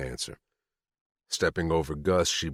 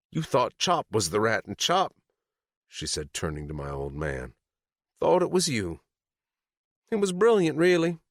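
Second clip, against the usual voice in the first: gloating; 7 semitones higher than usual. A narrator's reading. Sadie gloating.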